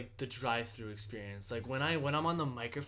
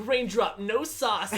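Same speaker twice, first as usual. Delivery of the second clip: laughing mock; 6 semitones higher, 7 dB louder, much slower than usual. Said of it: "extra as fuck".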